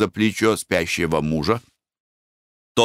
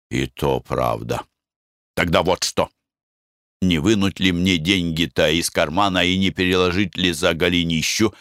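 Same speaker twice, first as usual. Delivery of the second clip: sheepish husband. Acted. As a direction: mumble an excuse. Husband's low voice.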